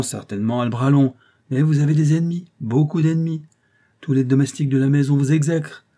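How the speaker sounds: lightly voiced old clerk, knowing and insinuating; hint at danger like a crafty old law clerk; sly old clerk. Old clerk warns the concierge of her enemies, lightly insinuating.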